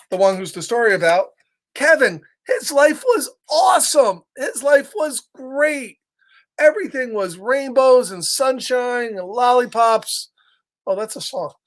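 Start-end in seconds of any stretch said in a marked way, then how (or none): 1.7-10.3 gushing. Acted. Storyteller gushing over Kevin's life.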